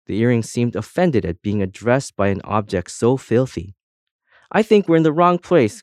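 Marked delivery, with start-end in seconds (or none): 4.5-5.8 higher, louder anxious cry. A narrator's reading. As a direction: cry out, lost and alarmed. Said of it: "cried the first earring".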